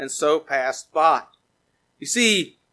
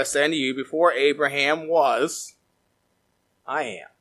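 solemn quote; 2 semitones lower than usual. Acted. Quoting Jesus, slowing.

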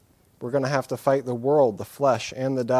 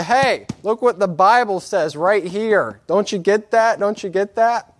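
louder, slower, higher, jabbing at the page; mock confrontation; 7 semitones higher, 7 dB louder than usual. Preacher confronting someone who is wrong, hammed-up loud scolding. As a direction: tell him off with the Bible open, slowly.

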